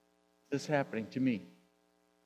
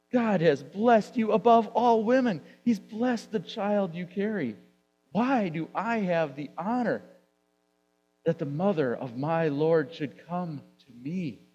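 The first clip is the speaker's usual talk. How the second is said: blurted out much higher and louder; excited blurt; 5 semitones higher, 6 dB louder than usual. Shown as a demonstration. Elizabeth blurting her blessing to Mary, loud and excited. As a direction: burst out with joy, unrehearsed. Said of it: "she blurted it out with excitement".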